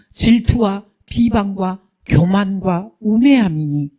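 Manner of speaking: slow, level recitation of a list; scripture reading. Real, not acted. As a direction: read the verse out item by item, slowly. Reads out a Bible verse.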